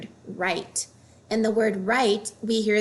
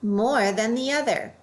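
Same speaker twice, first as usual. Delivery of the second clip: more than the OTHER, weight on "other"; stress on other; 2 semitones higher than usual. Shown as a demonstration. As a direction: lean on "other", falling off it.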